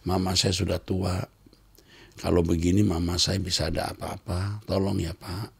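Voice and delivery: meek polite plea. Shown as a demonstration. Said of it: "Cukup ngomong gitu".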